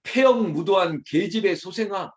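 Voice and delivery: acted harsh denunciation; harsh rebuke. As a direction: hurl the insult at your own son. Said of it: "사람에게까지 거칠게 말해요".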